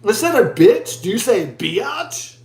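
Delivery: "biatch" stretched into "bee-atch", rising; plain "bitch" against a drawn-out "biatch"; Australian-style "biatch". Retold or imitated. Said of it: "I was like".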